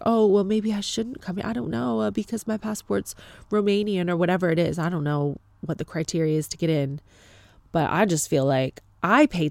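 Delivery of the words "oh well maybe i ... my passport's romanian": higher-pitched, hesitant imagined patient; mildly intimidated. Retold or imitated. Imagined newcomer doubting they should come, mildly intimidated. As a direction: back down meekly, voice raised in pitch. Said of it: "are being intimidated and like".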